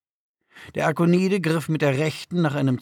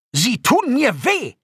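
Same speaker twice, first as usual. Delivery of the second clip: high, loud, drawn-out cry of protest; Dalartan; 11 semitones higher, 5 dB louder, slower than usual. A narrator's reading. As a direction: yell indignantly at the one hurting you. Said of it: "schrie Dalartan". (hoher, empörter Aufschrei)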